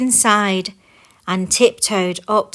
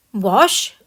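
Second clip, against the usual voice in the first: bewildered; 4 dB louder than usual. Acted. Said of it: "cried the bewildered dwarfs".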